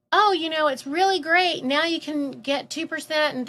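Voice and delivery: a lightly voiced chirpy dairy clerk; cheery store clerk. Dairy guy pitching new milks.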